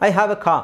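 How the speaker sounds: "car" said as "kaa", open ending; silent R. Shown as a demonstration. Teacher proving car is understood without R, silent R. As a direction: drop the R at the end of "car". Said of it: "ಆರ್ ಹೇಳಲಿಲ್ಲ, ಆದರೂ ಗೊತ್ತಾಗುತ್ತೆ".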